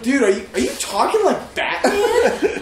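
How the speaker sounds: drawn-out sarcastic question, half laughing. Retold or imitated. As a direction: ask it slowly, mocking him. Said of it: "I said it all sarcastic like that".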